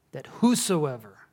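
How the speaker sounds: whosoever leaned on hard, falling off after; child's proud emphasis on whosoever; stress on whosoever. Retold or imitated. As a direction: give whosoever the weight, like a child reciting. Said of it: "She put the emphasis on the word whosoever".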